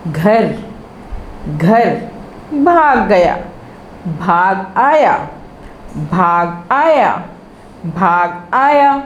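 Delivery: each chunk said three times, measured and clear; phrase-by-phrase dictation. Shown as a demonstration. Teacher to young pupils, slow repeat-after-me drill. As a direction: model each phrase slowly for the kids to repeat.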